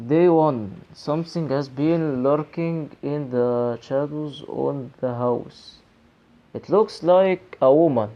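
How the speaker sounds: reading the diary entry slowly, word by word; spooky drawn-out reading voice. Acted. Gamer reading the ghost diary to viewers, slow.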